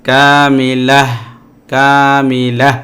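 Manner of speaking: drawn-out কামিলাহ with a breathed final হ; slow demo of কামিলাহ stopping on an h sound. Shown as a demonstration. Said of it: "জজম হবে এবং হা হয়ে যাবে".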